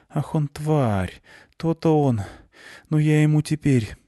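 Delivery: high, seething threats under the breath; fuming. A narrator's reading. Klyusya fumes at the traitor guard, seething. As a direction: spit it out in rising fury.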